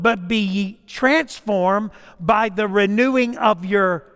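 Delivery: a preacher declaiming Romans; scripture proclaimed. Acted. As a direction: proclaim the verse slowly, leaning on each phrase. Quotes scripture from the pulpit.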